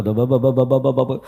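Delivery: imitated rapid babble of syllables; mindless recitation babble. Preacher mimicking people who just read on without understanding, babbled. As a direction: rattle off meaningless syllables, mimicking mindless reading.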